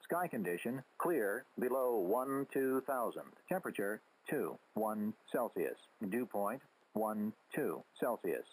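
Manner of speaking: robotic readout through radio static; crackly military radio. Real, not acted. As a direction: read it like an automated radio broadcast. Automated weather broadcast over radio.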